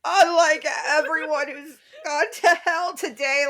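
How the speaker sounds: words squeezed through laughter; laughing while talking. Real, not acted. Cracking up while finishing the joke to the co-hosts, laughing through it. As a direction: push the line out mid-laugh.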